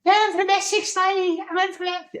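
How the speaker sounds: very high, loud mimicked squeak; mock squeaky Essex contestant; high-pitched squeaky voice. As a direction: squeak it out at the top of your voice. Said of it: "High pitch".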